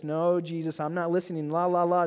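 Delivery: playful singsong blocking-out; mock stubborn refusal. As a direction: act like a kid refusing to listen. Mock refusal to hear God.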